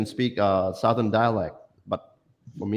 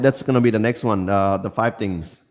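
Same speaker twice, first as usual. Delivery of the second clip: repeated louder and clearer; 4 dB louder than usual. Real, not acted. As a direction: say it again louder so he hears. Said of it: "Say again?".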